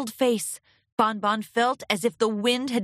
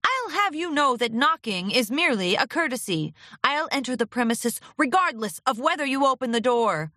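put-on scratchy old agent; 4 semitones higher than usual. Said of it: "in his scratchy voice".

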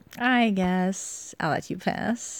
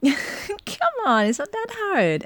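laughing; 14 semitones higher, 4 dB louder, slower than usual. Acted. Laughing, coaxing partner.

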